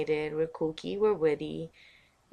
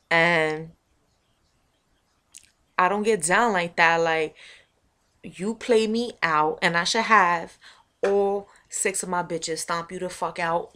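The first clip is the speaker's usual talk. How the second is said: lightly voiced tough homegirl, a bit louder; tough street girl; 5 dB louder than usual. Calling out an old homegirl who played her, mild tough street voice. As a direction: give it some block attitude. Acts street confrontation story.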